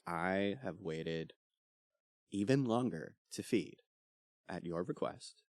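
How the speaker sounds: lightly voiced hungry vampire.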